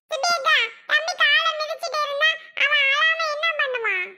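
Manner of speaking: high, piping little-brother voice. Acted. Little brother chiding sister about the baby's leg, piping voice. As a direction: pipe up high as a small boy.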